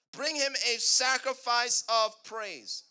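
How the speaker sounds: slow, forceful scripture proclamation; deliberate, punchy preacher delivery; emphatic preaching. Real, not acted. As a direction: stretch out the key words from the pulpit.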